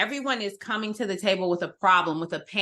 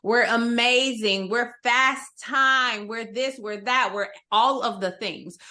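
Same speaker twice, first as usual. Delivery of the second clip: higher-pitched self-praise, easing off into a list; mock company boasting; 3 semitones higher than usual. Speaker imitating an organization talking itself up, mock boastful. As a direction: brag like a company listing its virtues. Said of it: "talk about how amazing you are".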